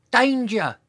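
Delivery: high, small-voiced warning call; a little dinosaur attempt at shouting; tiny shout. A narrator's reading. Dinosaur warning the others, tiny high shout. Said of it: "cleared his throat and shouted".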